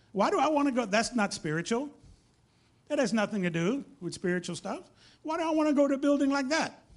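mock indignant questioning; imitated objection. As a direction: balk like a baffled outsider. Acts out puzzled Thai listener objecting.

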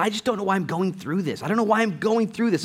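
high-pitched mock-distressed plea; retold distress. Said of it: "she's crying".

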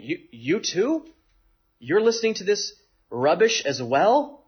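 slow, appalled scoff at the officers; can't believe you too fell for it; scornful disbelief. Retold or imitated. Pharisees scoffing at their own officers, appalled disbelief. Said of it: "That's the Pharisees' reaction here".

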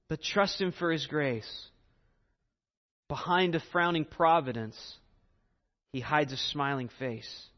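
solemn hymn reading; hymn recitation. Acted. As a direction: recite the hymn verses reverently. Reads hymn lyrics aloud.

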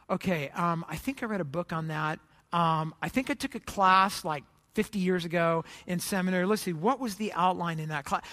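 low, halting thinking to yourself; hesitant recollecting. Acted. Pastor searches memory for advice, hesitant and low.

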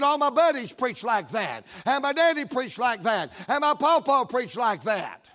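emboldened preacher's challenge; real bold. Retold or imitated. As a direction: fire it back boldly. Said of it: "then I got real bold".

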